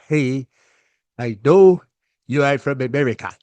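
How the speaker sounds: stern African accent, imitated; lightly imitated African dad; African father accent. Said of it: "before I get started talking like this guy".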